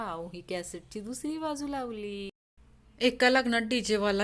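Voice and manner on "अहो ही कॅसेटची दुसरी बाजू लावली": soft, lightly voiced drunk; a hint of a drunk, quietly explaining; drunkard. Drunk singer explains himself to a passer-by, lightly tipsy voice. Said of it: "दारुड्या म्हणाला".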